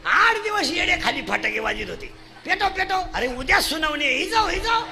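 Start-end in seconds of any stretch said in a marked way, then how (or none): 2.4-3.0 high, quick repeated command; excited urging. Acted. Supporters told to light the crackers, excited urging. 3.1-4.8 urgent call rising high; mock panic. Supporters hear hearing is tomorrow, mock panic.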